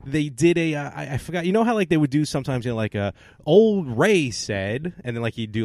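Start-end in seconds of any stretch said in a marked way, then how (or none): 3.5-4.9 put-on Old Ray voice. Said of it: "a character of Old Ray".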